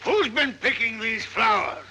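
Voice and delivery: angry demand. Acted. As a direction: call out crossly to catch the culprit. Old man confronts children over flowers.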